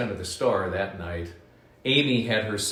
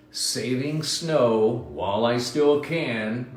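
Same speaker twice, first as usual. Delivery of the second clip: slow, lightly grumpy rabbit; a rabbit mildly grumbling over his snow; slower than usual. Acted. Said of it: "Rabbit grumbled".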